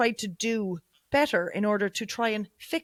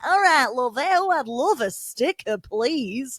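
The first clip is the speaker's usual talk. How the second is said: loud, higher, drawn-out mock-Manchester accent; 4 semitones higher, 5 dB louder, slower than usual. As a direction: ham up a friendly Manchester local. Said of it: "with the accent".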